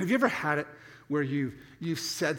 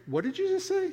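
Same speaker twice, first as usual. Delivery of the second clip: indignant wife; 13 semitones higher than usual. Retold or imitated. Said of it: "and she's like".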